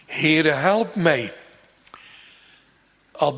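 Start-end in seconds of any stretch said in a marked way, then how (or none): 0.1-1.3 slowed, earnest pleading; slow plea. Acted. Preacher quoting the mother's cry, slow and earnest. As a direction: draw it out like a begging mother. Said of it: "wat ze naar voren bracht".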